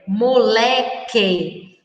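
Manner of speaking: "moleque" drawn out very slowly, syllable by syllable; "moleque" said at half speed for the class; slow model word. Shown as a demonstration. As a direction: stretch "moleque" so the que is heard. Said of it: "Q U E".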